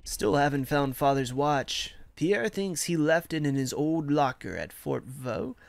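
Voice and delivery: measured letter read-aloud. Acted. Soldier writing to his Ma from Verdun, measured letter reading.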